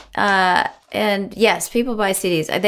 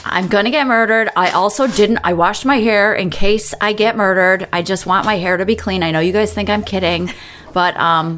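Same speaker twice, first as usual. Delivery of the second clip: man doing a woman's voice. Retold or imitated. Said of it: "I don't appreciate your impression right now 'cause it sounds a little bit like a lesbian".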